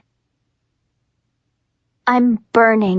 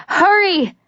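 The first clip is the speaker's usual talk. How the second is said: higher, a calling-out shout; urgent call; 9 semitones higher than usual. Acted. Adam calls Juliet down the rope, urgent and high. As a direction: call her on from below. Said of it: "Adam is calling to me".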